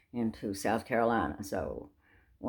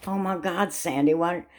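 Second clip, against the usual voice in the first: Grace dismayed; 5 semitones higher than usual. Retold or imitated. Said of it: "And she goes".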